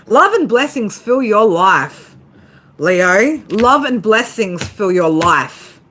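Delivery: slow, deliberate blessing to the listener. Acted. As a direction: draw out each word like a blessing. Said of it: "I'm gonna say it again".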